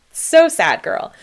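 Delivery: high, loud burst of heartbreak; overcome, almost laughing through tears; teary outcry. Real, not acted. Crying about her younger self.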